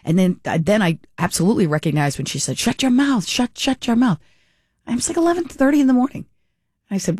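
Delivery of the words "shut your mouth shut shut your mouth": high-pitched mock Russian-or-German scolding; imitated Russian or German accent. Woman across the train aisle scolding laughing passengers, imitated Russian-German accent. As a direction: imitate a yelling Russian or German woman, without real shouting. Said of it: "very either Russian or German accent".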